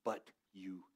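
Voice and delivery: a Braveheart-style battle cry of encouragement; passionate yelling William Wallace. Retold or imitated. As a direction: fire them up like a freedom fighter before battle. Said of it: "strong, passionate voice yelling at you".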